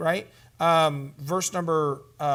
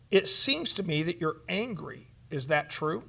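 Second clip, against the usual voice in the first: gentle question. Shown as a demonstration. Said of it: "you might say it like this".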